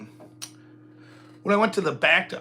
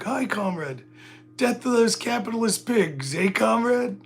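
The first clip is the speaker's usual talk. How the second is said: Russian comrade; 9 semitones higher, 4 dB louder than usual. Retold or imitated. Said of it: "some Russian guy is like".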